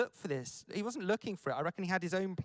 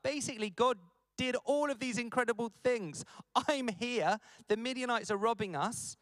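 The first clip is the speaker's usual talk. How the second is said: higher, fed-up moaning; mild mock annoyance; 5 semitones higher than usual. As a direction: voice a frustrated complaint, lightly. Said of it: "he's hacked off and he's moaning".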